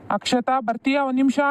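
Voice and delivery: calling out. Acted. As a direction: call her over from another room. Summons sister-in-law from another room. (ಕೂಗಿ ಕರೆಯುವ ಧ್ವನಿ)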